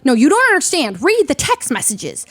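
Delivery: acting out someone frantically insisting; mock-frantic plea, pushed up at the start; agitated insistence. Acted quote, someone freaking out.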